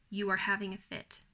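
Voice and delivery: steady, firm, unhurried statement; calm but unbending, like naming a fact; firm even tone. Shown as a demonstration. Mom to her tantrumming child, firm even tone. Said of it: "Notice a firm, even tone".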